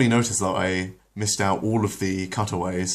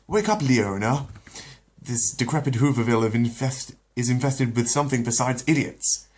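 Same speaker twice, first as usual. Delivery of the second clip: a bit higher, imperious little tyrant; Stewie demanding; 5 semitones higher, 3 dB louder than usual. Acted. Stewie orders his sleeping mother up, lightly imperious. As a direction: boss your mother awake.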